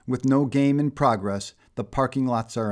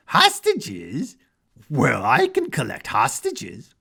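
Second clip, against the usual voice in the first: excited clown; 3 semitones higher, 3 dB louder, slower than usual. A narrator's reading. The mad clown jumps up at Menace, manic glee. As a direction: leap at the idea with manic glee.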